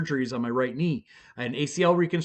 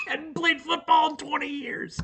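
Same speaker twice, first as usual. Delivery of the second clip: laughing; 13 semitones higher than usual. Real, not acted. Laughing at his own lie.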